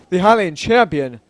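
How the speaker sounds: lightly voiced stately king; a touch of manly regal weight; king's voice by mistake. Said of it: "that's, that's, that's Sidon".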